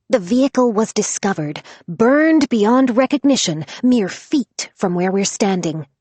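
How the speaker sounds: dramatic true-crime narration; reporter voice. Acted. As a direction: read it like a breaking news report. Podcast reporter voice.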